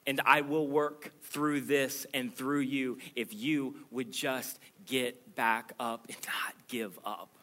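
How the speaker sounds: slow, fading into a whisper; hushed plea. Acted. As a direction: draw them in with a quiet plea.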